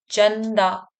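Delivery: "चंदा" drawn out as chann-daa; half-n sound. Shown as a demonstration. Teacher contrasting it with ang, clear n in "चंदा". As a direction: linger on the n in "चंदा". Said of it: "आधा ना का आ रहा है".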